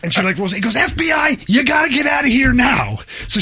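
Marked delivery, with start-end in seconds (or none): 0.8-3.0 mock shouted order. Hockey dad shouts the lady out of her spot, hammed-up command. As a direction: yell it like a fed clearing the street.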